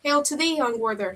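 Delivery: screeching witch. Acted. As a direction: screech it with glee. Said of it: "screeched the third, grinning".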